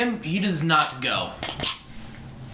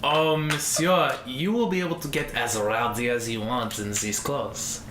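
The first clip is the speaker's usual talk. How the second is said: suave shopkeeper, lower and softer; French-style tailor; 6 semitones lower, 5 dB quieter than usual. Acted. Tailor assuring Gold about rowdy wear, suave character voice. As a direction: reassure a valued customer as a courteous tailor.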